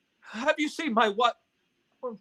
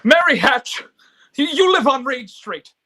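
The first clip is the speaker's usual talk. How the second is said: urgent; 7 dB louder than usual. Acted. George pleads, Mary recoils.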